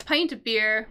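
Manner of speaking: "Pint" with a long i, as in "pie"; "Pint of beer" with long-i "Pint"; corrected pronunciation. Shown as a demonstration. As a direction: say "Pint" to rhyme with "mine" plus a t. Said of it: "I think pint".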